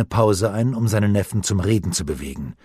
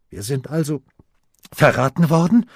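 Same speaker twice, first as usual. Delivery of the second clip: a stubborn, disbelieving question; insisting; 5 semitones higher than usual. A narrator's reading. Harald insists to his uncle, asking stubbornly. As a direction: press the question, rising sharply at the end. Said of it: "beharrte Harald".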